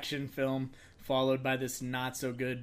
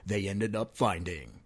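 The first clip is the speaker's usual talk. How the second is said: movie trailer voice; 3 semitones lower than usual. Pretend. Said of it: "get my voice back on".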